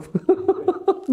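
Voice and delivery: squeaky high laugh; laughing at the memory. Real, not acted. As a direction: giggle high and short. Laughs telling story.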